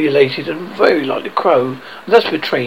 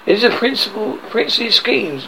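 higher, delighted exclamation; approving cry; 6 semitones higher than usual. A narrator's reading. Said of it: "cried Hook".

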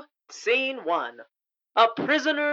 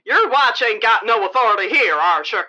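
fast, hard-edged guard voice; tough prison guard; 5 dB louder, faster than usual. Acted. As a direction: bark it like a mean warden.

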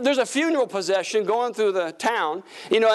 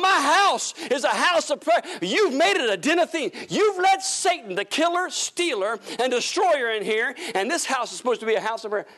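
raised, higher mock rebuke of the temple sellers; Jesus rebuking; 4 semitones higher than usual. Jesus scolding temple sellers, lightly acted higher rebuke. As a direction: preach it like Jesus scolding the merchants, pitched up. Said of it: "he's telling them".

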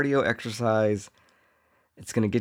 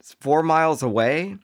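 higher-pitched, put-on bragging voice; boastful commuter; 5 semitones higher than usual. Pogo commuter bragging to his boss, mock-proud. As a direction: show off in a comic high voice. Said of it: "And he's like".

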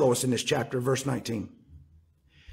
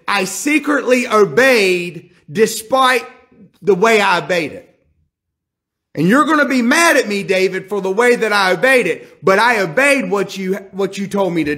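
urgent plea; 4 semitones higher, 3 dB louder than usual. Acted. Joab's message voiced.

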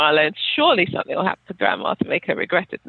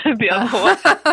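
mock echo; 4 semitones higher, 4 dB louder, slower than usual.

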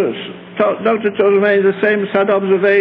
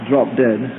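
mock dismissal; 11 semitones lower than usual. Mock aside after the prayer.

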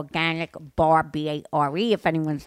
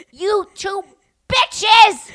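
high, loud retold shout; screaming insult; 13 semitones higher, 10 dB louder, much slower than usual. Man screaming back at two women, high angry shout. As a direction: yell it in outrage. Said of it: "as he's screaming at us".

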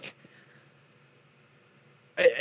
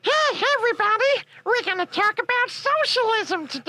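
overexcited presenter. Pretend. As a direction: shout it out like a chirpy TV presenter. Mock cheerful presenter greeting.

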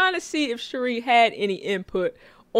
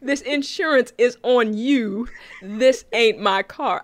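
slow mock quote; slower than usual. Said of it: "The whole".

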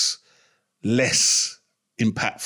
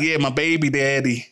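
laughing mock quote. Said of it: "No, it's just like".

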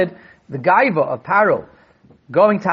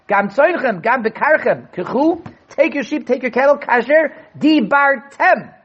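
"dibartem" drawn out slowly and raised high; stress on dibartem; 6 semitones higher, slower than usual. Shown as a demonstration. Rabbi to students, stressing Paro's words, slow and high. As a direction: lean hard on "dibartem", stretching it. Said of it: "Emphasis on dibartem".

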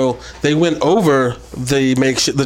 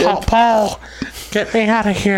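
whiny plea; 5 semitones higher than usual. Retold or imitated. Voicing Brock pleading.

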